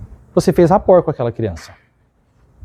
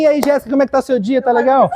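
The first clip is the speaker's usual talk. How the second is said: talking loudly; 5 semitones higher, faster than usual. Shown as a demonstration. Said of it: "é falando assim".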